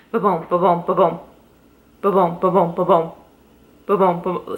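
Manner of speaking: ba-boom beats with an uneven skip in the rhythm; skipping heartbeat sound. Shown as a demonstration. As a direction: mimic a heartbeat that stumbles, ba-boom with a hitch. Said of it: "a very distinct skip".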